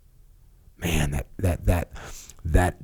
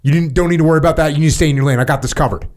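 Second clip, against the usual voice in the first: dismissive browbeating boss; 5 semitones higher, faster than usual. Retold or imitated. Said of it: "I come at you with the".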